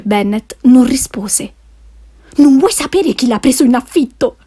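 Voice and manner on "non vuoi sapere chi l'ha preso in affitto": a touch higher, impatient wife; mild impatient exclamation; impatient exclaim. Acted. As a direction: push the question out, mildly exasperated. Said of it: "esclamò la moglie, spazientita".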